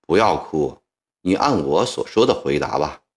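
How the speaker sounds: mild, gentle persuasion; a hint of soothing reassurance; soothing urge. A narrator's reading. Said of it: "曾国藩劝道".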